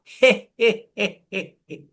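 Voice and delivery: a light he he giggle, fading away; hee hee laugh. Shown as a demonstration. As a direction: giggle he he for the class.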